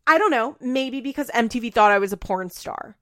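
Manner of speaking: lightly acted defensive comeback; mock snippy retort.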